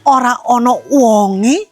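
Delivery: snooty Javanese mother-in-law. Acted.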